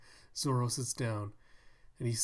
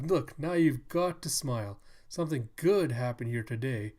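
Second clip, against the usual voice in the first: townswoman voice; 6 dB louder than usual. Pretend. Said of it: "one of the women comes up".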